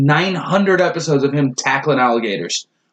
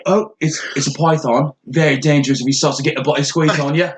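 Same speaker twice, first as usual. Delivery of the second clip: mock Australian wildlife host; cartoon Australian animal-show presenter; Steve Irwin; 2 semitones lower than usual. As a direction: explain danger in a put-on Australian accent. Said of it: "going all the way Australian on this".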